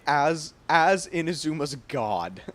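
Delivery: slow, lightly grand echo of a god's proclamation; quoting a grand line. Retold or imitated. Streamer relishing the character's powerful line, slow and mock grand. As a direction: savour it slowly like a mock divine decree. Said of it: "Being able to say".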